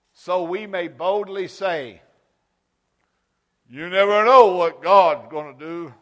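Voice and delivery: loud, high, fervent proclamation; preaching shout. Real, not acted. Preacher rousing the congregation, loud and high. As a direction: belt it out to the room.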